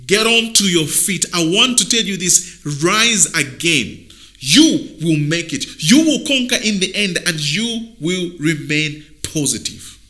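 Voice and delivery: emphatic, punched motivational urging; rally someone back onto their feet; firm, forceful pep talk; rousing exhortation. Real, not acted. Urging fallen men to rise.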